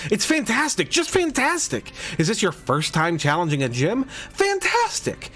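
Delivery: lightly voiced gushing photographer; a hint of an excited artist; gym leader voice. Reads gym leader Viola's lines.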